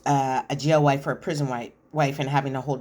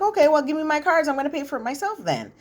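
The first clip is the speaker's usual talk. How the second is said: high-pitched mock exasperated demand; retold exasperation; 10 semitones higher than usual. Acted quarrel over paying at store.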